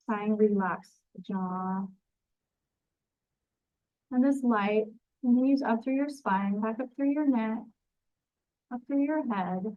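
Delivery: unhurried, even grounding-meditation delivery; guided meditation. Acted. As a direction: guide them gently through a visualization, phrase by phrase. Leads a grounding visualization.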